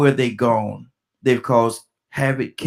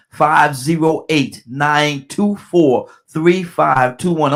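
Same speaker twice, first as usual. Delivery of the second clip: very slow, firmly spaced-out digits; real slow; much slower than usual. Real, not acted. Host giving listeners the call-in number, real slow. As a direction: read the number out slowly, digit by digit. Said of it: "I'm saying it real slow".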